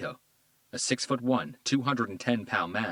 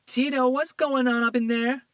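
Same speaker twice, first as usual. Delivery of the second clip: much higher, loud call from another room; young girl calling from the bedroom; 8 dB louder than usual. A narrator's reading. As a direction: shout it through the wall.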